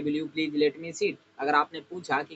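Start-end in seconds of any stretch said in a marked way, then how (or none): 0.0-1.1 slow model. Shown as a demonstration. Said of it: "रिलेट करते हैं".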